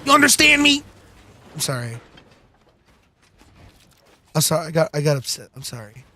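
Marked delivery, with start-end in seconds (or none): 1.5-6.1 quiet apology. Pretend. Apologizes after getting upset.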